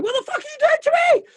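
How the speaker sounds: high, fast squeal of parental outrage; hammed-up, squeaky indignation; mock exasperated outburst. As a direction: overplay a parent at their wit's end. Mock parent outburst at crying kids.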